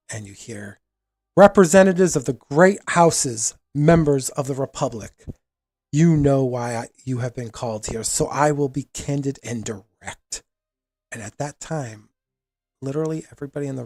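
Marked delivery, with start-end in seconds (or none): 1.3-10.4 loud amplified voice. Acted. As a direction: address the whole hall from above. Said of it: "a loud voice breaks over the audience".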